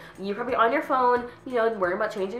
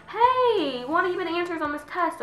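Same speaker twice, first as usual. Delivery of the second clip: high-pitched, pestering plea; mock wheedling classmate; 10 semitones higher than usual. Lazy classmate asking for homework, high mock pleading. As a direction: imitate a moocher in a put-on high voice. Same classmate voiced again.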